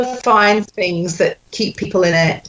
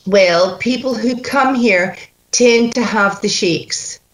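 Scottish accent. Shown as a demonstration. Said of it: "so I'm going to do the line".

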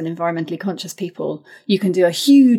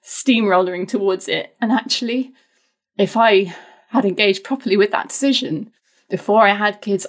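voice wobbling; 3 semitones higher than usual. Real, not acted. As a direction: voice trembling with real worry. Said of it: "I can al-, already hear my voice wobbling".

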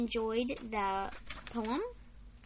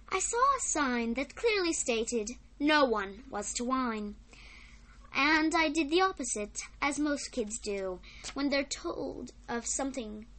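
put-on measured recital of a children's poem; poem reading; 3 dB louder than usual. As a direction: read it out in phrases, pausing at line ends. Reads a poem aloud.

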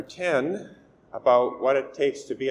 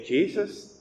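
calling out; 8 semitones higher than usual. Retold or imitated. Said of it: "he begins to shout out".

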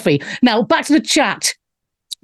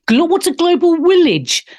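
higher, mocking German-accented voice; 7 semitones higher than usual. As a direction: question it in a put-on German accent. Mocks the clip's accented phrase.

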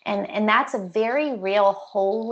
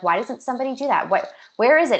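quick, exasperated retold question, louder at the end; frustrated; 3 semitones higher, 3 dB louder, faster than usual. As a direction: replay her frustration, rushing. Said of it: "she was really frustrated".

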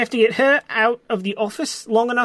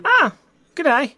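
put-on Australian accent; 5 semitones higher than usual. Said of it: "Oh, I recognize that accent".

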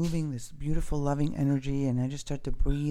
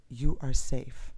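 calm voice; slower than usual. Retold or imitated. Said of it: "I heard somebody say to me".

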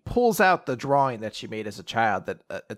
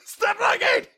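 tearful outburst; 8 dB louder, slower than usual. Retold or imitated. Girl crying, telling them stop looking.

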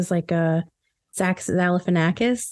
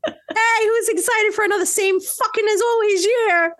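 sarcastic cheer; 12 semitones higher than usual. Acted. Host faking New Year party hype for listeners, sarcastic cheer. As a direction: sell it like a fake hype host.

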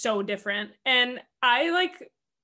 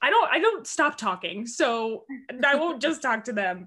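higher-pitched playful defensiveness; mock protest; 3 semitones higher, 3 dB louder than usual. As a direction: protest the teasing, pitched up at first. Mock-protesting quote of own reply.

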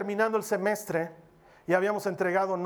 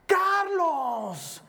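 a much higher, louder call of "Carlos"; shouted name; 9 semitones higher, 3 dB louder than usual. Retold or imitated. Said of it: "Me grita". (la señora le grita desde lejos en la embajada, alto y fuerte)

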